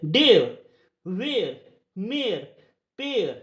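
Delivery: "डेयर, वेयर, मेयर, पेयर" gliding from e to ya; word by word, glide the vowel in "डेयर, वेयर, मेयर, पेयर". Shown as a demonstration. Teacher reading rule three examples, e-ya glide in "डेयर, वेयर, मेयर, पेयर". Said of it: "ए तो य की sound दे रहा है".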